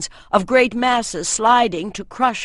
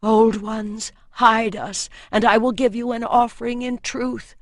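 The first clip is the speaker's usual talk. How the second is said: prayer; 3 semitones higher, 4 dB louder than usual. A narrator's reading. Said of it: "the priestess prayed".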